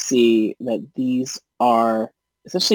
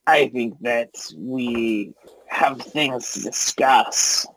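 slow, lightly voiced goblin boss; scheming goblin leader; slower than usual. Goblin leader stops the rescuers to bargain, slow deliberate voice. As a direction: hold them up with measured words.

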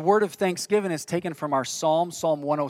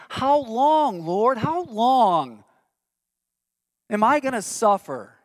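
higher and louder, pleading; anguished cry; 7 semitones higher, 5 dB louder, slower than usual. Acted. Pastor voicing David crying out to God, anguished plea.

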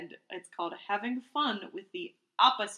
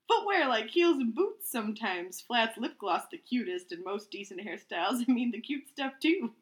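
reading aloud; 2 semitones higher than usual. Acted. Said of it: "Third sentence".

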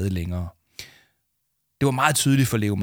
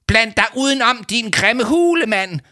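much higher, louder snarl; 12 semitones higher, 5 dB louder than usual. A narrator's reading. Adviser getting back up, snarling insult. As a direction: spit the insult. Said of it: "vringede Leo Manchot".

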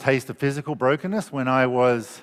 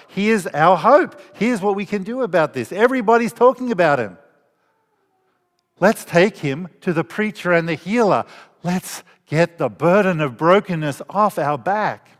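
hopeful friends; 4 semitones higher than usual. Retold or imitated. Friends voiced hoping for healing.

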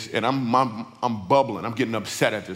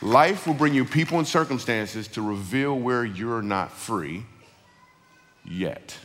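deliberate saying; slower than usual. Real, not acted. Preacher repeating the saying for the congregation, slow and deliberate. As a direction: slowly restate it, measured.

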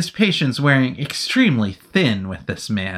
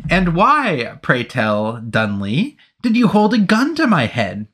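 indignant officer demanding answers; blunt demand; 6 semitones higher than usual. Acted. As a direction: ask it flatly, no softening. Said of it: "Anthony asked baldly".

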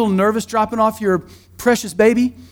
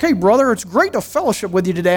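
churchy greeting parody; 2 semitones lower than usual. Retold or imitated. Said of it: "like removing highfalutin language".

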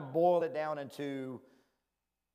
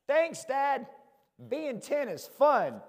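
sarcastic; 7 semitones higher, 3 dB louder, much slower than usual. Retold or imitated. Sarcastic reply to strict dad.

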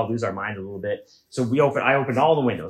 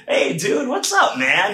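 high, overly breezy greeting; forced casual; 11 semitones higher, slower than usual. Retold or imitated. Comedian greeting the lawn guy after being seen naked, forced casual and high. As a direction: fake it like nothing happened.

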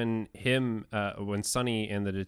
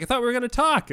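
high louder complaint; mock Sonny; 13 semitones higher, 7 dB louder, faster than usual. Sonny complaining to Moretti, high. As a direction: whine at the cop.

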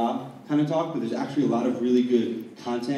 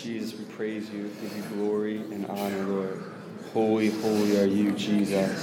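murmured praise, gently building; prayer; 2 semitones lower, slower than usual. Real, not acted. Praying aloud.

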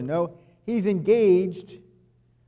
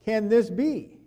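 1 bewildered question; 5 semitones higher, much slower than usual. Retold or imitated. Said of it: "she's like".

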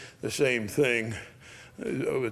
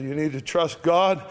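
slightly raised, projected voice; loud urging; 3 semitones higher, 4 dB louder than usual. Retold or imitated. To a dying woman in her ear, mildly loud. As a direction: speak up a little, right into her ear. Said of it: "I said it loudly".

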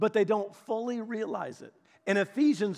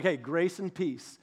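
slow, easy-going hello; casual greeting. Shown as a demonstration. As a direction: greet them like an old friend. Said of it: "and he's like".

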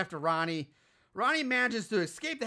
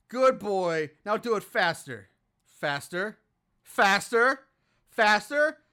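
put-on good boy then faster faster, climbing louder; mock urging, building; 4 dB louder, slower than usual. The killer mother coaching her son, building to loud. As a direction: egg him on, each faster pushing harder.

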